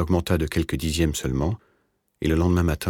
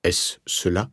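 mildly feverish, slightly raised question; slower than usual. A narrator's reading. Sick man asks the doctor about his sentence, mildly feverish. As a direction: ask it with a touch of fever. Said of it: "dit le vieux d'une voix de fièvre".

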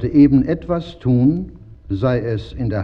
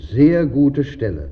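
happy. A narrator's reading. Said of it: "sagte er froh".

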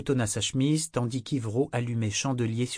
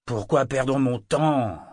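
furious; 2 semitones higher, 4 dB louder, slower than usual. Acted. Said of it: "d'un ton furieux".

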